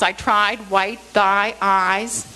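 "tried, white thy eyes" slowly, each I held long; long I sounds. Shown as a demonstration. Teacher picking out sounds built into the verse, long I sounds. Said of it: "the long I sounds".

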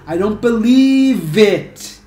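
"believe it" very slow, v carried onto "it"; linked pronunciation. Shown as a demonstration. Teacher models "believe it" slowly, linking the v. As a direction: stretch "believe" high and loud, then "it". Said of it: "A pronúncia".

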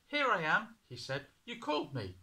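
put-on high, loud eager boy; a little boy hurrying to answer; boy voiced high and bright-eyed; young boy. A narrator's reading. Boy Samuel answering Eli.

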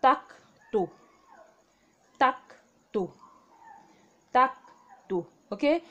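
tak to said clearly, syllable by syllable; Korean reading. Shown as a demonstration. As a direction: model tak to for the class. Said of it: "to read this will be".

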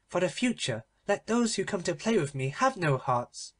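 a spoilt princess sneering as she leaves; cried out. Acted. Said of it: "she cried".

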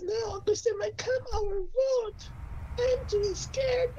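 mock-scared cheap anime voice; hammed-up fearful cartoon lines, lightly done; bad cartoon voice acting. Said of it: "sounds like a bad, uh, voice acting".

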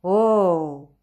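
loud, drawn-out oh; crowd exclamation. A narrator's reading. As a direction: exclaim like a whole audience. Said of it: "Tout le monde s'exclame". (exclamation du public, forte et prolongée)

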